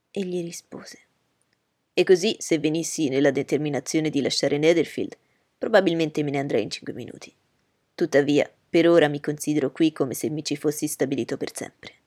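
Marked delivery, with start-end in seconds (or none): 1.9-11.9 put-on louder, eager young gentleman; Bingley's voice. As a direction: reassure her warmly and firmly.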